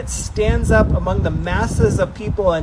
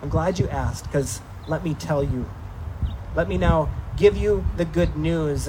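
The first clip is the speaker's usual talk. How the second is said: imagined Peter; 3 semitones lower, 4 dB quieter than usual. Pretend. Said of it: "I imagine Peter being like".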